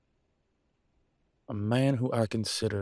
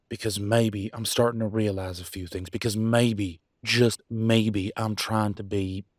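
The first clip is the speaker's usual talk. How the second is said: louder, pressing hard on "maybe"; heated insistence; 5 dB louder than usual. Acted. Arguing with mate about changing, heated.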